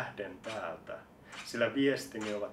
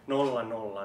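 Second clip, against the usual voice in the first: louder, punched zeros; loud count; 5 dB louder than usual. Acted. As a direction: bark the zeros out. Rhythmic counting chant. (kovaääninen nolla, nolla)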